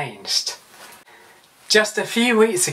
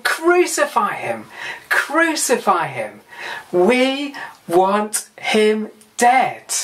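imitated crowd shouting; 4 semitones higher than usual. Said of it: "they were shouting".

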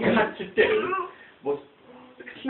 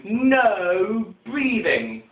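slow, drawn-out stern command from a strict teacher; 4 semitones higher, 3 dB louder, much slower than usual. Retold or imitated. Strict teacher to the class, slow stern drawn-out command. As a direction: stretch every word out like a teacher who forbids breathing. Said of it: "she used to stand up the front going".

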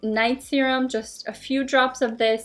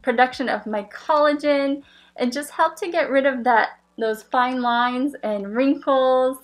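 muffled behind plastic mask; speaking inside covering mask; through a face mask. Real, not acted. Seen 5: Rigid LED mask covers whole face while she talks; mouth unseen.

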